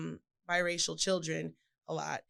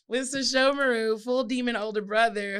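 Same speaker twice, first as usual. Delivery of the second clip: Sesshomaru voice; 4 semitones higher, 7 dB louder than usual. Pretend. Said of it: "let me not do that voice".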